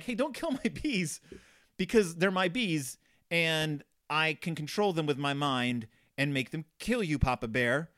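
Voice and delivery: hammed-up mad scientist gloat; mock villain. Scientist bear warns Papa Bear off his bees, hammed-up gloat.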